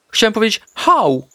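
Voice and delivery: wysoko i powoli przeciągnięte „hau”; zgrywa, że tylko szczeka; piesek zmienia „au” na „hau”. A narrator's reading. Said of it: "odpowiedział Artek". (piesek udaje, że to było szczeknięcie „hau”)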